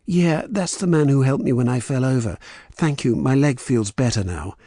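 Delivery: put-on English accent, pitched well up; perfect English accent. A narrator's reading. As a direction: answer in a polished English accent. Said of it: "in a perfect English accent".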